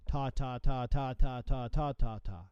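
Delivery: ta ta ta run together evenly as triplets, a bit slow; smeared triplet ta ta ta; wrong rhythm. Shown as a demonstration. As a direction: roll ta ta ta without any gap.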